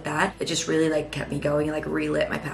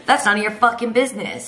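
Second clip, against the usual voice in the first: louder, higher imitation of an irate neighbor; mock angry retort; 5 semitones higher, 5 dB louder than usual. Old lady answers Ryan's question, mock angry. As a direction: fire back like an offended old lady.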